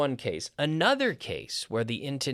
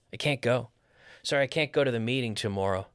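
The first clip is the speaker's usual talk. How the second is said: CAN'T with a full vowel and firm beat; stress on CAN'T; faster than usual. Shown as a demonstration. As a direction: put the weight on CAN'T. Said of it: "we stress the negative".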